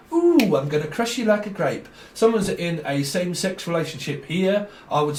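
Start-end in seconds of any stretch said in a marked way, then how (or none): 0.1-1.9 higher, hammed-up playground menace; mock bully threat. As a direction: tease it out like a cartoon bully. Acted bully quote, second take.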